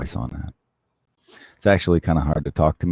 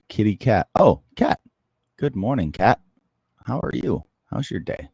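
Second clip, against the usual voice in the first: higher, cooing pet talk; talking to the cat; 5 semitones higher than usual. Real, not acted. Greeting his cat on stream.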